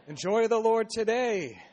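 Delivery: rousing exhortation. Real, not acted. Exhorting congregation.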